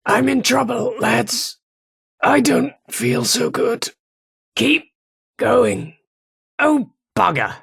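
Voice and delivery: high, strained wounded pleas. Acted. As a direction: call out while badly hurt. Wounded soldier calling to squad.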